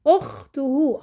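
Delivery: "اخته" split into okh-tu-hu; sounded out syllable by syllable. Shown as a demonstration. Teacher starts analysing the word, "اخته" sounded out by syllables. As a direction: separate each syllable of "اخته". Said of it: "بحلل صوتي".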